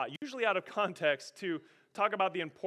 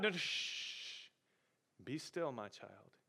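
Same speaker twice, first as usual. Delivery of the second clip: whispered, much softer and lower hush; God hushing; 6 semitones lower, 10 dB quieter, slower than usual. Acted. God calming a worried believer, soft whispered hush. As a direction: hush a frightened child.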